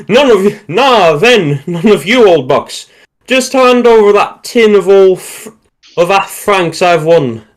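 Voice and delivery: high, loud Cockney trooper; Cockney accent. A narrator's reading. Cockney trooper demanding his winnings from the others, Cockney accent. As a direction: play it as a broad London Cockney. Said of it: "one of our real Cockney troopers".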